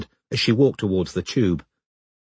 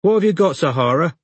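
put-on high-pitched woman calling to a child; raised, high voice from the background; muffled woman's voice; 7 semitones higher, 4 dB louder than usual. A narrator's reading. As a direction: voice a woman questioning her toddler. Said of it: "a woman's muffled voice said".

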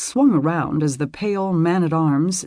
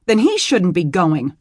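snapping; 2 semitones higher, 5 dB louder than usual. Acted. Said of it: "she snapped".

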